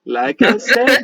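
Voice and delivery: measured, formal mystic with a lilting pitch; courteous stranger paying a compliment; lightly voiced Midnight. Midnight praising Mister Kolbavar for his work, lightly acted mystic.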